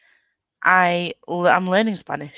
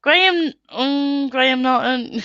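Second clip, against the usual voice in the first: put-on Irish accent; 6 semitones higher, slower than usual. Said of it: "in the Irish".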